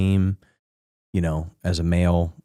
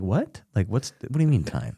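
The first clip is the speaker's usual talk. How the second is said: higher, mock-baffled disbelief; incredulous me; 4 semitones higher than usual. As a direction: play your own exasperated confusion. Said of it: "And I'm like".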